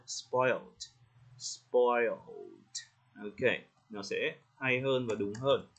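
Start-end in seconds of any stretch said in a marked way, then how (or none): 0.1-2.1 "Spoiled" with a hollow dark L. Shown as a demonstration. Teacher adding the missing L, "Spoiled" with dark L. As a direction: curl the tongue slightly for the L in "Spoiled". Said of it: "mình sẽ cần hơi ồ ồ một xíu".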